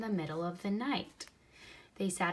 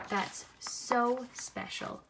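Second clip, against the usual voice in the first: touched; 4 semitones higher, much slower than usual. Real, not acted. Reader touched.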